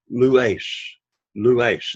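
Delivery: "lues" accented on "lu", next to last syllable; penult stress. Shown as a demonstration. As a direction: teach "lues" in two syllables, leaning on "lu". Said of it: "accent on the penult".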